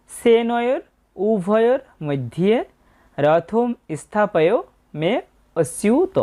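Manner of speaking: slow "সেনয়োর উভয়োর মধ্যে", vowels held long; model verse pronunciation. Shown as a demonstration. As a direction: recite "রথম স্থাপয় মে অস্যুত" slowly, word by word. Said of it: "এই লাইনটার উচ্চারণ হবে".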